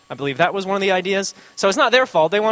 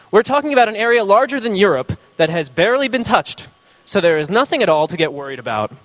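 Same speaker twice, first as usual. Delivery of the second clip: quoting the governor; 3 semitones higher, 4 dB louder than usual. Retold or imitated. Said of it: "I won't do it in a Brazilian accent".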